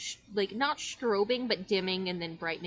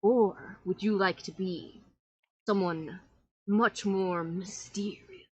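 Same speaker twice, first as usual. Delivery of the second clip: theatrical magician; slower than usual. Acted. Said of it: "he looks at you and goes".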